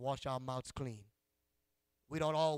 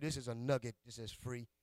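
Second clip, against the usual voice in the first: secretive; 3 semitones lower, 6 dB quieter than usual. Acted. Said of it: "Can I give you a, a secret?".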